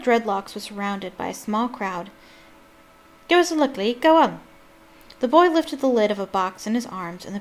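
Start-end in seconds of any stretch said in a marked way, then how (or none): 3.3-4.4 eager call. A narrator's reading. Excited crowd boy calling out.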